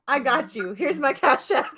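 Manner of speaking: gleeful mock eagerness; excited. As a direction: hand it over with glee. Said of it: "I said".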